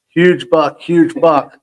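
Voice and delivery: hollering to the other hunters about the buck; retold scream. Hunter yelling to the drive line, mock holler. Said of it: "I am screaming at the top of my lungs".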